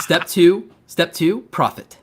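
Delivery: high, loud meme punchline; mock pitch. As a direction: deliver it like a hyped-up pitch.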